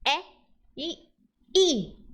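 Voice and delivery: E open, e closed, I as in final e; three e sounds. Shown as a demonstration. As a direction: show the three sounds of letter E one by one. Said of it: "Tem som E".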